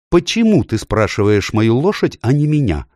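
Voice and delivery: high-pitched offended demand; wrathful question rising high; angered. A narrator's reading. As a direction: demand it crossly, pitch climbing. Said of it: "разгневалась Аравита".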